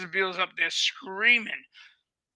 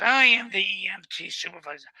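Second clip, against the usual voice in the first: whispered, louder; retold official; 6 dB louder than usual. EMT supervisor announcing herself to the caretaker, whispered. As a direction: hiss out the official's title. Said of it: "She goes".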